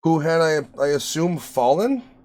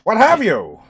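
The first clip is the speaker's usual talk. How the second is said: hammed-up 1920s tough guy; old-timey gangster voice; twenties voice; 2 semitones higher than usual. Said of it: "doing the twenties voice".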